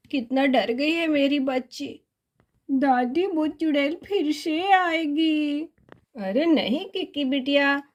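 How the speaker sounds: mother consoling her frightened daughter; comforting mother. Acted. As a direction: soothe the scared child.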